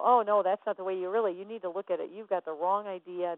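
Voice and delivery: loud, insistent "oh no" correction; judgmental correction. Acted. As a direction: jump in to set them straight, mock judgmental. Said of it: "We go into judgment".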